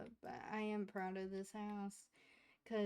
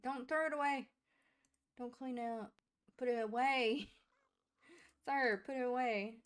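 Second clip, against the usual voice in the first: exasperated yelling; 2 semitones higher, 7 dB louder than usual. Real, not acted. Gamer yelling at a Sim not to throw food away. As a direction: bark the orders at the stubborn Sim.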